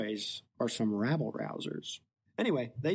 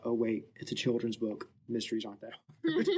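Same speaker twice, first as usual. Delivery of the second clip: amused; 3 semitones lower than usual. Retold or imitated. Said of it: "and then I thought".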